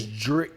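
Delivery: "Drick" as one syllable, like drink; sound demonstration. Shown as a demonstration. Correcting the host on his name, "Drick" as one syllable. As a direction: run D and R together in "Drick". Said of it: "as in, like, drink".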